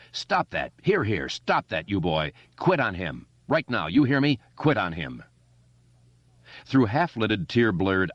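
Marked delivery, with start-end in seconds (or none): 0.1-5.2 commanding adult voice; stern grown man. Acted. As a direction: order the boy off. Adult breaks up fight.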